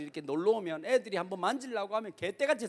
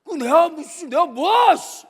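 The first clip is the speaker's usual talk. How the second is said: louder exasperated grumble; imitating a fed-up husband; 6 semitones higher, 11 dB louder, much slower than usual. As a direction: sputter it like a husband who's had enough. 야곱 억울함.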